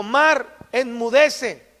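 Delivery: slow, firm command to the sea; commanding rebuke. Acted. Jesus rebuking the sea, slow and commanding. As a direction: speak each word slowly, with full authority.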